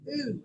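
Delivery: Ooh sounded as a long oo; vowel sound demo. Shown as a demonstration. Teacher modelling the vowel in group, Ooh. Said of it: "kinda got a ooh sound there".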